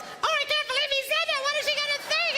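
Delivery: high, fast gossiping women's voice; mock shocked ladies. Pastor mimics the women in the congregation, high mock gasp. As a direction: squeal it like scandalised churchwomen. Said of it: "All the girls".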